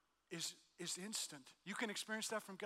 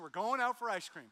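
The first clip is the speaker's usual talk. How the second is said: louder, upbeat declaration to the family; excited announcement; 3 semitones higher, 7 dB louder than usual. Retold or imitated. Dad announcing ice cream to the kids, excited. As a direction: announce the treat with a flourish.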